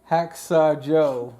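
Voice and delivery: slow, laughing villain name; playful spooky voice. Acted. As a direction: savor the name with a chuckle.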